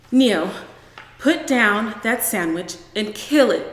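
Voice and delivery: loud, urgent call to her son; urgent orders. Acted. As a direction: bark it out in panic. Mother panicking at the creature.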